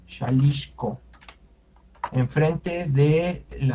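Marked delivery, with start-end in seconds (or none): 0.0-1.0 Xalisco said "sha-LISH-co"; correct Nahuatl pronunciation. Shown as a demonstration. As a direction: repeat "Xalisco" with sh at the start and middle. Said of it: "la pronunciación es".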